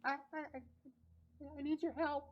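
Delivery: high, small, stammering plea; little high-pitched pleading voice; timid tiny creature. Acted. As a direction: beg as a tiny critter. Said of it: "you hear a tiny voice".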